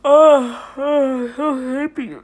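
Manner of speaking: high, loud burst of joy; delighted squeal. Real, not acted. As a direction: gush with sudden delight. Sudden delighted outburst.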